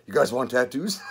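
laughing, half-shouted joke to the cellmates; laughing tease to fellow prisoners; joking offer. Retold or imitated. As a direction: crack a jail joke through laughter. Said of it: "I look at the other people".

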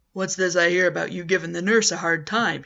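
a hint of a tough orderly scolding the patient; gruff orderly. Orderly confronts patient at night.

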